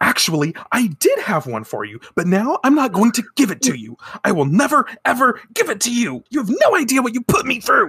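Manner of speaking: very high-pitched, furious, livid ranting outburst. Retelling a fight between a man and a woman, imitating his angry rant. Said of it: "he's popping the fuck off".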